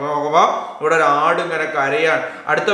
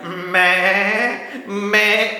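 goat bleat; much slower than usual. Shown as a demonstration. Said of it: "ആടെങ്ങനെ കരയാ?".

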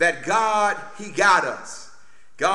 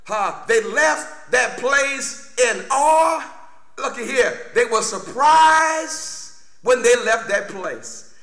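emphatic preaching; 4 semitones higher than usual. Real, not acted. Preacher retells the women leaving the tomb, emphatic preaching.

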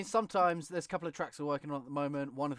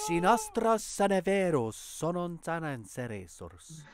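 slow, louder mock Latin gibberish; 4 semitones higher, 7 dB louder, slower than usual. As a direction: ham up fake Latin.

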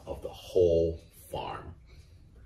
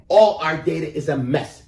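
higher, louder hen complaint; fretting hen; 9 semitones higher, 6 dB louder than usual. A narrator's reading. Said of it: "she said".

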